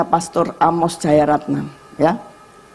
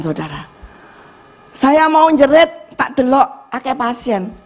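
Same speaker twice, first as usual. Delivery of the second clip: ordinary talk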